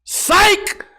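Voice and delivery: high, sudden prankster's yell; yelled gotcha. Retold or imitated. Reverend pulls back a fake handshake, high mocking yell. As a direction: yell it as a mock gotcha, pitch leaping up. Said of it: "pulled it away and yelled".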